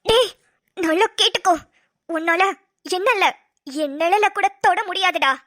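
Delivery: low, slow, steady defiance; cold defiance. Acted. Captive woman defying her kidnapper, low and slow. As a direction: stare him down.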